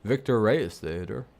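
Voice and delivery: amateur play-by-play read; half-hearted newscaster. Pretend. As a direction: attempt at a sports announcer's call. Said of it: "can't even do a news guy voice".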